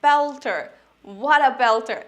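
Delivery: loud, delighted praise; excited British fan; thrilled fan. Shown as a demonstration. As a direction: cheer a stunning goal. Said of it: "এটাও বলতে পারি".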